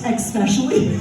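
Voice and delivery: "especially" said as "ex-specially"; mispronounced. Retold or imitated. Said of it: "I hate".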